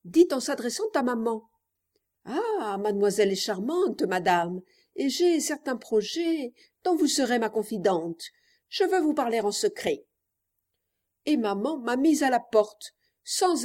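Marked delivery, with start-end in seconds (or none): 2.2-10.1 lightly voiced old gentleman, overcome; a hint of an agitated old suitor; old man's altered voice. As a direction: imitate an old man mildly overcome with emotion. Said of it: "d'une voix très altérée".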